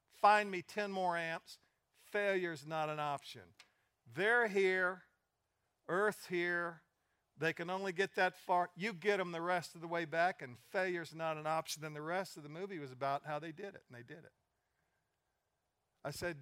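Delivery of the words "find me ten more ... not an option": loud, driving orders to the team; loud flight director's rallying order; commanding shout. Retold or imitated. Flight director commanding his engineers.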